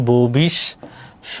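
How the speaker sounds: ভবিষ্যৎবাণী said very slowly, rising at the end; slow pronunciation demo. Shown as a demonstration. Teacher to students answering her own question, slow ভবিষ্যৎবাণী. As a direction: draw ভবিষ্যৎবাণী out syllable by syllable. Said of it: "তাহলে কি?".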